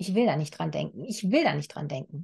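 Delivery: fast, repeated, mantra-like chanting.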